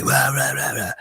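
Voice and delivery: high-pitched imitation ranting; wordless mock rant at the police; mock aggressive shouting. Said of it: "screaming and shouting at the cops aggressively".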